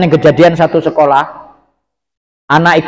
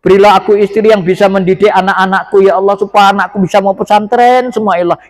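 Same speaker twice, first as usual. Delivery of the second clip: imitated prayer; 3 semitones higher than usual. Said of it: "tak doa, mohon doa".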